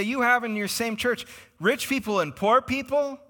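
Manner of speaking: high, rising incredulous questions; amazed disbelief. Retold or imitated. The world marvelling at rich beside poor, incredulous. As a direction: act astonished, pitch climbing as it builds.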